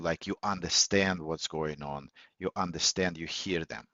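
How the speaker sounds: low, falling tone through "you understand, you hear them"; downward inflection. Shown as a demonstration. Coach showing that you understand, downward inflection on "you hear them". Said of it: "say it with a downward inflection".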